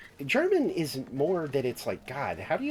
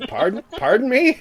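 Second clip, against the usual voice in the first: the expert; 10 semitones higher, 9 dB louder than usual. Retold or imitated. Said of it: "And the guy goes".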